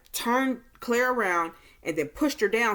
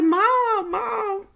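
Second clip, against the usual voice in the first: crying; 14 semitones higher, 5 dB louder than usual. Retold or imitated. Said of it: "she was crying like she didn't really want to go".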